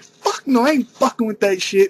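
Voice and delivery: high, teasing brush-off; jokingly cutting a friend down; mock dismissive retort. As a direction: blow him off in a put-on high voice. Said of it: "I was like".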